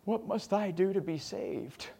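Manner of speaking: loud, high cry of sirs then slow plea; dying jailer begging to be saved; desperate cry. Retold or imitated. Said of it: "he goes".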